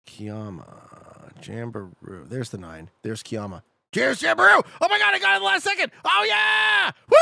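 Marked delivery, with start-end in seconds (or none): 3.9-7.2 excited victory shout. Real, not acted. Gets the location at the last second.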